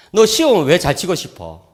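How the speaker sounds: asking son. Retold or imitated. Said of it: "물었어요".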